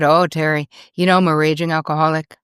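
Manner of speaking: mock Irish accent, loosely imitated; terrible Irish accent. Golfer admitting his drinking to a friend, bad Irish accent. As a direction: put on a badly faked Irish accent. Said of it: "This is me doing a terrible Irish accent".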